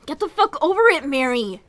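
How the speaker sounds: harsh dismissive shout. Acted. Kroven brushing off Mary's pain, harsh shout. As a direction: snarl it at her.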